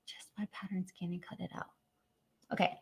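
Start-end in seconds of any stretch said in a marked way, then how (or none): 0.1-1.7 sentence dies away into a whisper; fading whisper. Real, not acted. Losing the thread while reading chat, whispered. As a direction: let the words trail off into breath.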